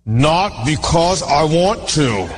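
imagined reluctant reply to the tax clerk; reluctant grumble. Retold or imitated. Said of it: "I felt like saying".

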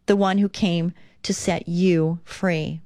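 hushed, slow whisper. Acted. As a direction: breathe the promise as a whisper. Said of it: "whispered line in reading".

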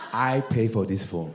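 mildly stern parent impression; immigrant father. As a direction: lay down the law as an imitated father. Voicing immigrant father on phone.

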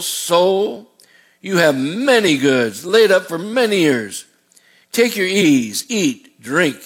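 drawn-out self-satisfied farmer; gloating rich man. Acted. Pastor reading the rich fool's words, slow and savoring.

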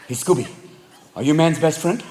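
low, slyly probing cat; scheming cat. Acted. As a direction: coax the dog with a leading question. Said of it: "the cat's like".

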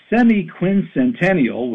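semi-quincentennial spelled out slowly syllable by syllable; semi-quincentennial said slowly, each syllable laid out; slow, careful naming. Shown as a demonstration. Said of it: "It doesn't roll off the tongue".

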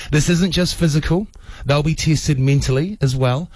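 measured, deliberate radio presenter delivery; radio announcer read. Acted. Host introducing a charity challenge to listeners, announcer read. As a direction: present it on air, pausing between phrases.

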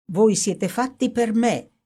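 horrid gaiety. Acted. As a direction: relish the words like a dark joke. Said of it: "esclamò con orrenda gaiezza".

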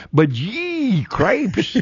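high, hammed-up Fargo accent exclamation. Sportscaster teasing his play-by-play lingo, exaggerated Fargo accent. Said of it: "you gotta talk in that accent".

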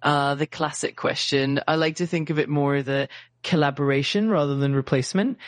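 hammy fake French accent in English; bad French accent. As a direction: lay the French accent on thick and badly. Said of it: "using a really bad fake French accent".

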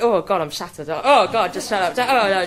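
mock posh lady, high and loud; hammed-up bossy lady; high bell-like voice. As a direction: imitate a bossy woman with a ringing high voice. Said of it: "high-pitched voice that was like a bell".

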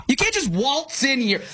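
mock indignant scolding. Shown as a demonstration. Co-host mock-scolding a coworker who barges in, slow and high. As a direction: scold the intruder with fake outrage.

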